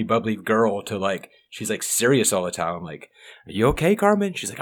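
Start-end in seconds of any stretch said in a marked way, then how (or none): 3.5-4.3 higher, sing-song check-in; concerned mom. Retold or imitated. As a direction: ask gently like a worried parent.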